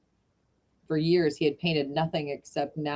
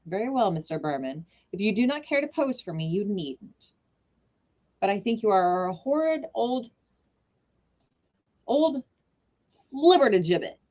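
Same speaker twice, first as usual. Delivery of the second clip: Sue indignant; 5 semitones higher than usual. Acted. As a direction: scold him, building up to the last word. Sue voiced, angry.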